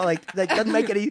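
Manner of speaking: ordinary talk, nothing marked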